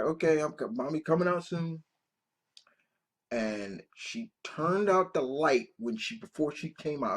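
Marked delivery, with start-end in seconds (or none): 0.0-1.8 lightly voiced mom, higher; mother's voice. Mother telling her son she's coming, higher. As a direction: mom soothing her child, lightly done. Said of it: "she's like".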